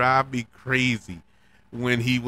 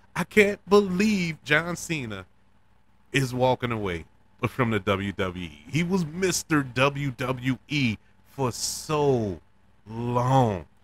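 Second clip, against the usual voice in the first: choked-up, welling up, very slow and drawn out. Talking about a wrestler leaving the WWE, getting choked up. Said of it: "I'm getting choked up thinking about".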